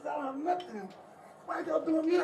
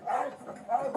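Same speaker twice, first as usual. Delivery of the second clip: panicked shout; 2 semitones higher, slower than usual. Real, not acted. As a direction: scream it out in real fear. Man forced into car, screaming.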